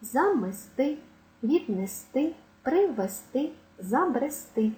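замести, віднести, привести, забрести stressed on ТИ; final-syllable stress. Shown as a demonstration. Teacher listing derived verbs, stress on last syllable. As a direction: finish each verb on a stressed ТИ. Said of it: "На останній склад падає наголос".

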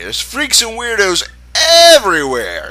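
high, slow and disgusted; high, slow put-on voice of a disgusted girl; grossed-out character voice. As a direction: sneer at the whole town from way up high. Reading a character's grumpy line.

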